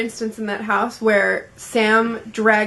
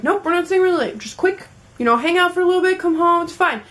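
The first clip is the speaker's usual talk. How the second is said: higher-pitched imitation of a persuasive friend; breezy coaxing; 6 semitones higher than usual. Imitating friend talking her into a party, breezy coaxing. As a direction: brush off the worry in a raised voice.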